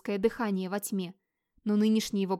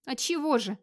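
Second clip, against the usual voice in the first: higher-pitched, irritated comeback; mildly snappy answer; snappish retort; 4 semitones higher than usual. Acted. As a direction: throw it back a bit testily. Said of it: "огрызнулся Вигмар".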